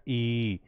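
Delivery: "ई" drawn out softly as a long ee; long vowel. Shown as a demonstration. Teacher repeats the long sound for students, drawn-out vowel. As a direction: hold the ee of "ई". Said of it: "थोड़ा लंबा समय लगता है".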